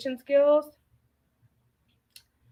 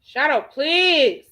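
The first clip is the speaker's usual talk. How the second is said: exasperated plea; 3 semitones higher, 4 dB louder, slower than usual. Real, not acted. Scolding a pet.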